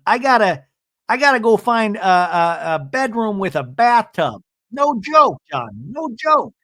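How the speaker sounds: high, loud, frantic husband; mock panic. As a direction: ham up a man panicking over a bathtub.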